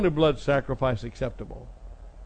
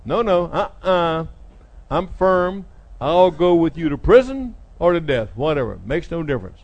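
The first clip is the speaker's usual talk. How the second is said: firm, emphatic declaration, higher and louder; boastful vow; 3 semitones higher, 4 dB louder than usual. Acted. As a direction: insist loudly, then wave it off. Peter boasts his loyalty to Jesus.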